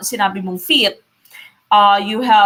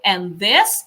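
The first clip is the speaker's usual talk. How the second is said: "and this" with "this" drawn out and rising; stress on THIS. Shown as a demonstration. Teacher showing students an iamb, stress on "this". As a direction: lean on "this" after a light "and". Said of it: "This is stressed".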